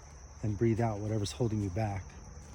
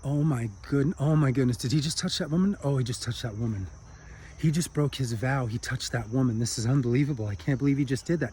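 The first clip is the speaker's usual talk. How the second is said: shocked inner voice. Acted. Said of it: "and he goes, in his mind".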